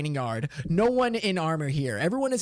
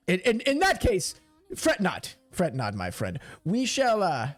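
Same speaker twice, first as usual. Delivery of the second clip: hesitant, lightly voiced commander; a touch of theatrical bafflement. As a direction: reassure haltingly, then question in puzzlement.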